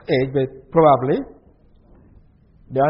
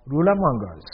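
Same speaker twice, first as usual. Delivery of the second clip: mocking doubt. Shown as a demonstration. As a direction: ask it as if it could never be. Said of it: "the tone of their voice".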